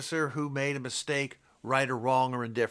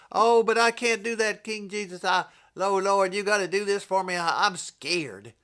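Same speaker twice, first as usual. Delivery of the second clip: timid Christian; 6 semitones higher, 3 dB louder than usual. Retold or imitated.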